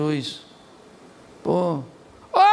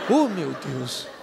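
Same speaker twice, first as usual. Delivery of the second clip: laughing amazement; 6 semitones lower, much slower than usual. Pretend.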